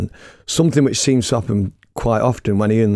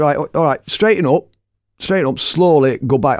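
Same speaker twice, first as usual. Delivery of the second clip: calling out directions; 5 semitones higher than usual. Retold or imitated. Directing a driver, retold.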